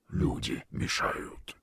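slow breathy creature grumble; grumbling monster voice. Acted. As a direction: grunt it out like a sea beast. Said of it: "буркнул голос".

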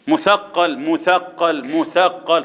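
"مثقل" with the ث said as a true th, tongue between the teeth. Shown as a demonstration. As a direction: say "مثقل" with a clear interdental th. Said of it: "طلع لسانك في لسان". (مثقل بثاء بين الأسنان)

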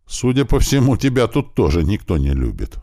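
usual speaking voice

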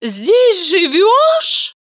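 very slow high stunned question; stunned woman, drawn out high; Valeria, slow and stunned; taken aback. Acted.

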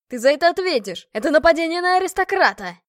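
loud, high furious threat; furious shout. Acted. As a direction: bellow the threat after her. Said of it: "орал мне вслед". (яростный крик с угрозой)

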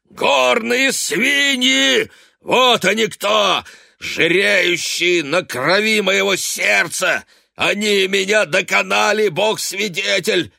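high, loud, slow ranting; raging tirade. A narrator's reading. Drunk father ranting about the townsfolk. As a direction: rage against the world.

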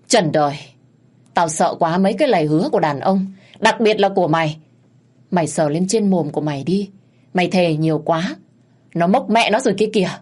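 Đài sneers at her husband's promises, loud and scornful; scornful retort. Acted. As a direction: sneer at the cheating husband, rising to a jeer. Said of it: "Chị Đài cười khẩy".

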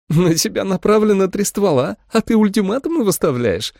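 Holly mocking the vampire; mocking question. A narrator's reading. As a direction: sneer at her ultimatum. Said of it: "насмешливо спросила Холли".

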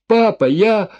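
high, loud broken cry of Papa; desperate sob-like cry. A narrator's reading. Daughter calling her dying father, desperate high cry. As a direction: reach for him in despair.

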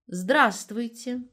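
Здравствуйте said slowly with the silent в clearly sounded; over-careful hello. A narrator's reading. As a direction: stretch Здравствуйте out, pronouncing every letter including the в. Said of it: "старательно выговаривая слово так, чтобы слышалось непроизносимое «в»". (старательно выговаривая «Здравствуйте» с чётким «в»)

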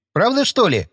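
half-believing, lightly surprised question; mild surprise, voiced by the narrator. A narrator's reading. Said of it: "удивился Павел".

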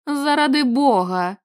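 slow frantic exhale of the words; nestiamno, breathed out. Acted. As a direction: breathe it out in mild panic. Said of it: "нестямно видихнув Ларі". (нестямно видихнуто, повільно)

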